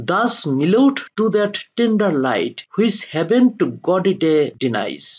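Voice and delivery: slow, deliberate verse reading; poem recitation. Acted. Teacher reads Byron's verse to students, slow recitation. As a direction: read the verse out phrase by phrase, slowly.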